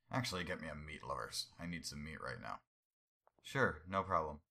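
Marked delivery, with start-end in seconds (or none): 0.1-2.6 swapped character voice. Acted. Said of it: "I think I swapped voices".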